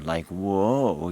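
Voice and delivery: a drawn-out whine on whoa; whining grunt. Retold or imitated. Hunter mimicking a buck chasing a doe, whining. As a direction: copy the buck's whining grunt. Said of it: "he had a whine".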